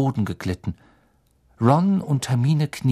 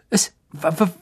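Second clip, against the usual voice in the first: high, slow stammer; higher voice; 7 semitones higher, slower than usual. A narrator's reading. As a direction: stammer it out, scared. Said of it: "mit noch höherer Stimme als sonst".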